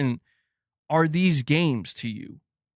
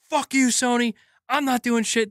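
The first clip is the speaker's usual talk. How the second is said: higher-pitched mock outburst; mock defiance; 5 semitones higher than usual. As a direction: play at defiantly telling off a company. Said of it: "do I come out here and I'm like".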